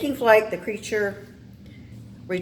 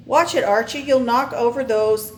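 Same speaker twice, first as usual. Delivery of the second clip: higher, louder warning call; sharp warning; 5 semitones higher, 5 dB louder than usual. Acted. Professor warning Archie near the table, raised voice. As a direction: warn him off quickly.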